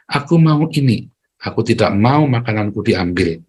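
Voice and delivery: controlled, everyday-pitched model sentence; speaking nicely. Shown as a demonstration. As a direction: state the wish without shouting. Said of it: "ngomong yang baik".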